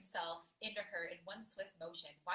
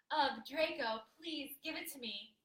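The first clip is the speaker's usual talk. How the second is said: pleading moan; 6 semitones higher, 6 dB louder, slower than usual. Acted. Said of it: "he chuckled".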